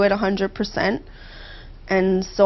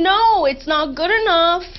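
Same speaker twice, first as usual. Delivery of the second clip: mimicking her inner critic; 6 semitones higher than usual. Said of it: "I hear your voice saying".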